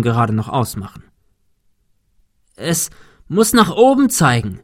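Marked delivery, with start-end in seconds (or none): 2.6-4.6 higher call into the wind. A narrator's reading. Man directing his friend on the roof, calling against the wind. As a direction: call it out over the storm. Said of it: "rief Thomas dem Wind entgegen".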